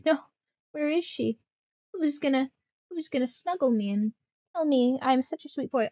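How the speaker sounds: high pleading pet voice, lightly done; whiny cat voice. Retold or imitated. Cat pining for owner who went swimming, high whiny voice. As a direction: whine like a clingy cat missing its owner. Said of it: "He was like".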